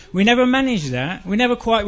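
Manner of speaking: normal talking voice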